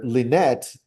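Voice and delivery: Lynette stretched out slowly, every sound held; slow, drawn-out name. Shown as a demonstration. Teacher drawing out Lynette slowly to split the name. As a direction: say Lynette very slowly, as if pulling it apart. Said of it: "I can break it up".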